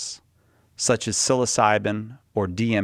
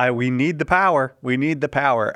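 mock pleading; 4 semitones higher, 4 dB louder than usual. Host jokingly demands ghost power.

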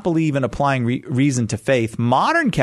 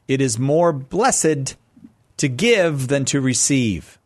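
each word drawn out slowly, quiz-master style; slow and deliberate; slower than usual. Shown as a demonstration. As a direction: read it slowly, weighing every word. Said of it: "True or false, Henry? Jesus said".

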